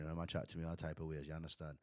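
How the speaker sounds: imitating a barber's Jamaican patois; lightly done Jamaican patois, mi no si; Jamaican accent. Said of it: "he had a thick Jamaican accent".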